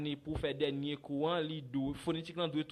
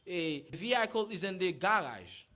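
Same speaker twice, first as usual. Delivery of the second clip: each word drawn out slowly and a little louder; slow learner version; 4 semitones higher, 4 dB louder than usual. Retold or imitated. Teacher mimicking a learner's slow, careful sentence. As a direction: spell it out like an unsure student. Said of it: "Ou même qu'on a dit".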